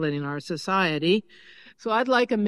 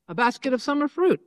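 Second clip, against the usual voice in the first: quoted reply; 6 semitones higher, faster than usual. Acted. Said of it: "And I said".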